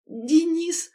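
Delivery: his name bursts out and breaks; voice breaking. A narrator's reading. Lera seeing her fiancé, voice cracking with relief. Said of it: "Голос сорвался".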